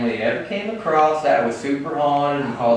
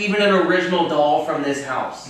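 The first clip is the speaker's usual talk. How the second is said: surprised; 6 semitones higher than usual. Real, not acted. Realizing the doll isn't original.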